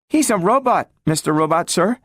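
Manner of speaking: put-on a small girl asking after her lost friend; eager little girl. A narrator's reading. Gloria asks the talking robot about Robbie, high and hopeful.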